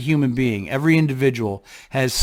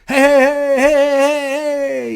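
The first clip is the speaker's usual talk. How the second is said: much higher, hyped-up party hollering; wild party greeting; 13 semitones higher, 5 dB louder, slower than usual. Retold or imitated. At the bar as his drunk self, a hyped-up high holler. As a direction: throw out hey like the life of the bar. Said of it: "my drunk energy when I was wild and crazy".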